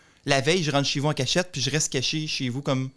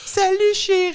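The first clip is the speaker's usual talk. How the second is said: sweet husband voice; 4 dB louder than usual. Retold or imitated. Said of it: "T'es chill".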